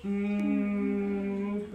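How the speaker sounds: low soft hum with lips closed; humming demo. Shown as a demonstration. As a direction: hum gently like a bee. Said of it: "you're gonna just say".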